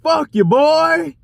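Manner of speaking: high, dragged-out taunting voice; mocking the other driver. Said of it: "He was like".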